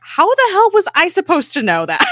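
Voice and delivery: loud, high-pitched imitated exasperation; exasperated. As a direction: protest loudly as if unfairly blamed. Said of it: "Fitz's exasperation in that moment".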